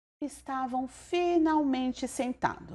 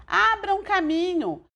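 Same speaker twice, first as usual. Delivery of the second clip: a raised, slow shout to clear the way; 8 semitones higher, 3 dB louder than usual. A narrator's reading. Uncle and son-in-law shout at the guests to make way. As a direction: make room, call it out high and slow.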